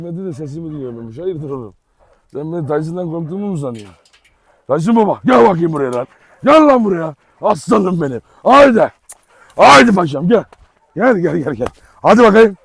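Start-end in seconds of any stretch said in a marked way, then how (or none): 4.7-8.2 calling the dog. Real, not acted. 8.4-12.6 calling out. Real, not acted. Calling the dog over loudly.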